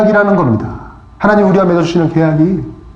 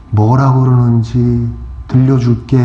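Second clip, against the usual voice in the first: slow, low, reassuring; gentle inner voice; 6 semitones lower, slower than usual. Retold or imitated. God's voice answering the pastor's prayer, gentle. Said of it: "마음의 울림이 있으면서".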